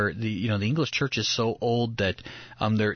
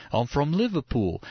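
imitated English accent, slightly raised; 3 semitones higher than usual. Retelling the guide's answer, imitated English accent. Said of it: "he had this real thick English accent".

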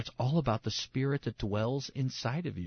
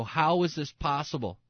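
higher, amazed retold outcry; crescendo outcry; 5 semitones higher than usual. Preacher voicing Paul at the crescendo, high outcry. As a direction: build to a high peak of disbelief. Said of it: "at the crescendo".

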